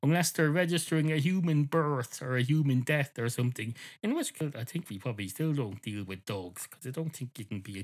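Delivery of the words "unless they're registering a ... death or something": firm refusal. Retold or imitated. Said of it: "I just go".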